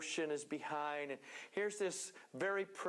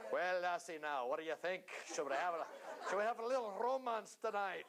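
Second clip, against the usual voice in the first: mock romantic. Mock romantic line to the wife.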